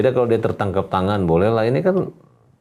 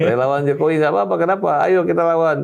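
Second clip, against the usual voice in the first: mock defiant boast; 6 semitones higher than usual. Quoting opponents' defiant boast.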